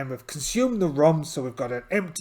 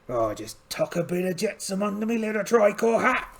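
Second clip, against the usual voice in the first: pirate voice; 7 semitones higher than usual. Acted. Pirate captain finding treasure.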